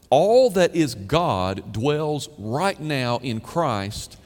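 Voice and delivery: slow, loud "right now" driven home; weighty declaration; emphatic slow proclamation. Real, not acted. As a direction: proclaim each word. Preacher emphasizes present tense.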